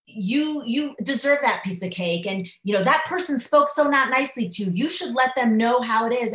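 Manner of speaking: mock inner voice urging you to treat yourself; self-indulgent inner voice. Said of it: "the side of me that says".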